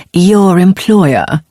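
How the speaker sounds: slow, sneering stress on employer; sarcastic. Acted. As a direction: drip sarcasm on the last words. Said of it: "emphasizing the final two words sarcastically".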